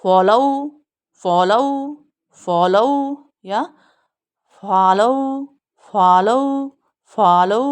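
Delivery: फॉलो stressed on फॉ, rising at the end; फॉलो with a firm first syllable and a rise; follow drill. Shown as a demonstration. Teacher drilling फॉलो with the class, stressed first syllable. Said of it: "पर इस पे stress है".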